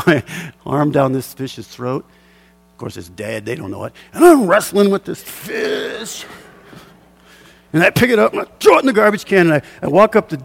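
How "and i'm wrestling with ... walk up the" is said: excited retelling. Real, not acted. Wrestling the big halibut.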